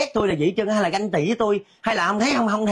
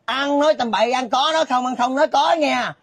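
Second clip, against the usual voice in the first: higher-pitched indignant telling-off; indignant scolding; 5 semitones higher than usual. Acted. Accused gossip telling off the neighbour, indignant. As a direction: rebuke them sharply for loose talk.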